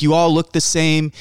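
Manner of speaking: mock Chicago Italian complaint; dad's Chicago Italian. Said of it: "very deep Chicago Italian broken English".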